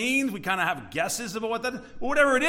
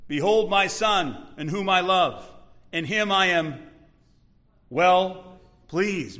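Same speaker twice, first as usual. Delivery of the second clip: measured, mildly raised proclamation; crying out; slower than usual. Acted. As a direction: declare it in spaced-out phrases. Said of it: "The Father cries out from heaven".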